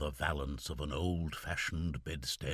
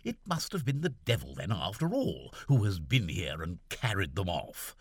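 cried out. Acted. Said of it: "cried Seaforth".

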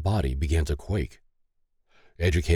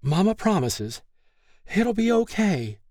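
high-pitched, anxious soothing; motherly reassurance; 13 semitones higher than usual. A narrator's reading. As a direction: comfort a hurt child, voice high. Mother reassures her injured child.

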